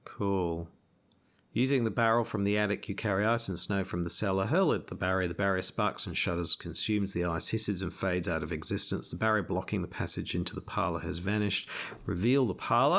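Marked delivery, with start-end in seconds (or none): 1.5-13.0 reading the card aloud like a storyteller; story narration. Acted. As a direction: narrate the scene for the players. Reads scenario card text.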